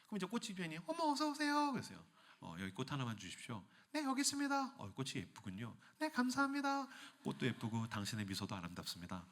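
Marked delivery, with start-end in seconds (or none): 0.9-1.7 bright florist greeting. Acted. 2.4-3.6 low polite customer. Acted. Disguised king asking. 3.9-4.7 bright florist greeting. Acted. Florist reply. 4.8-5.8 low polite customer. Acted. 6.0-6.9 bright florist greeting. Acted. 7.2-9.2 low polite customer. Acted. King flirting.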